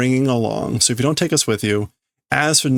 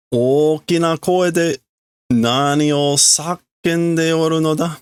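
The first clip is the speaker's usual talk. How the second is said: Kuchiki scolding; 5 semitones higher than usual. Acted. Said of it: "that's Kuchiki saying".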